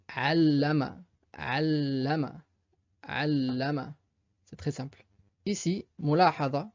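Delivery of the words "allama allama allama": allama avec le ll tenu; doubled l. Shown as a demonstration. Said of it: "comme pour muallimun". (allama, l double appuyé)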